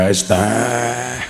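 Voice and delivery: low, drawn-out imitation of a hawker; iced-tea vendor on mic. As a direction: mimic a seller's long amplified call. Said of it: "Bakul es teh nganggo mic". (menirukan penjual es teh pakai mik)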